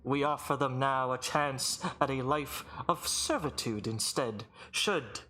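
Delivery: lightly voiced formal herald; measured proclamation, slowing at the end; booming arena announcer. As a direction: offer the terms like a magistrate to a crowd. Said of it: "booming voice echo throughout the arena".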